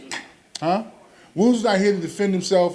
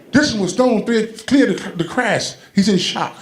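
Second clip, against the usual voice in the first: paramedic voice; 6 semitones higher, 3 dB louder than usual. Retold or imitated. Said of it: "I heard him say".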